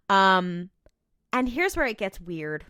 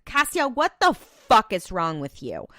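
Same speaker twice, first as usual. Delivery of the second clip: mock outrage; 2 semitones higher, 5 dB louder than usual. Podcaster scolding Castiel over his meddling, mock outrage. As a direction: playfully scold with rising exasperation.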